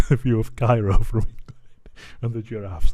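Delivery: breathy whisper through the laugh; whispered sign-off. Real, not acted. Vlogger to viewers, whispered sign-off. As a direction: whisper the sign-off, still amused.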